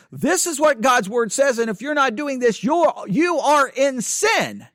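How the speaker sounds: mildly acted pulpit rebuke, slowing at the end; rebuking preacher. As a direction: rebuke the congregation, landing the last words slowly. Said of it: "preach it in a rebuking way".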